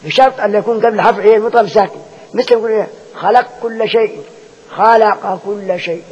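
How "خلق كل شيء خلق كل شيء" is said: slow recitation of خلق كل شيء, the قاف merged into the كاف as xalakkul; tajweed merging demo; merged qaf into kaf. Shown as a demonstration. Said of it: "تدغم القاف في الكاف".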